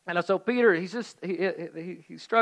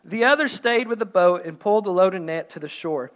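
measured read-aloud with pauses; scripture reading; 3 semitones lower than usual. A narrator's reading. Preacher reading John's gospel to congregation, measured narration. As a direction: read the passage out evenly.

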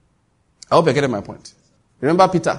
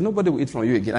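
soft, understated offhand remark; casual; 3 semitones lower, 5 dB quieter, much faster than usual. Retold or imitated. Man passing a tree and just saying it, casual. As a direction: say it quietly in passing, no show of power. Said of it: "He just looked at the tree and said".

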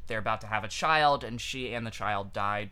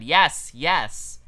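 crowd cheer; 2 semitones higher, 10 dB louder than usual. Retold or imitated. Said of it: "the audience loudly all cried".

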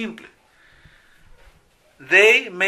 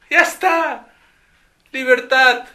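much higher and louder joyful shout; mock student cheer; 9 semitones higher, 7 dB louder than usual. Student cheering that the lesson is finally over, much higher and louder.

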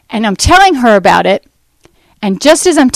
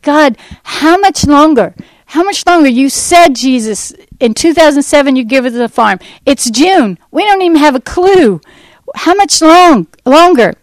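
higher, pleading cry to God; pleading prayer; 5 semitones higher than usual. Retold or imitated. Woman in the hallway begging God, pleading and high. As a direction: press God with mounting desperation. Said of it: "And I'm sobbing".

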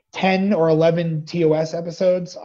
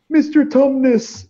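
retold shout; 7 semitones higher, 6 dB louder, slower than usual. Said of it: "someone just shouted out".

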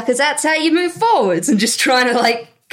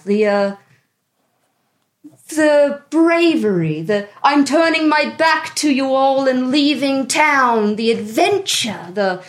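pretentious artist. Acted. The speaker speaks as character.

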